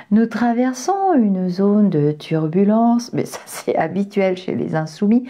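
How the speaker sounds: a hint of an airline hostess over the intercom; flight attendant voice. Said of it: "Je peux prendre ma voix d'hôtesse de l'air".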